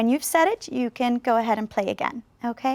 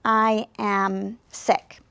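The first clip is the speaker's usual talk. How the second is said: "I am sick." said very slowly, each word apart; slow, careful demo; 3 semitones lower, much slower than usual. Shown as a demonstration. Teacher showing students the practice sentence, slow and clear. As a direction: spell out "I am sick." slowly for learners. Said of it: "the sentence that says".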